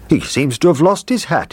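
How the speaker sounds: a cook musing kindly; cook's voice. Acted. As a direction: cook talking about the soldier.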